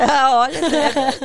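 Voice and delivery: fala alta em meio ao riso; rindo alto. Real, not acted. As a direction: comece a frase gargalhando. Ri ao guardar o segredo. (às gargalhadas)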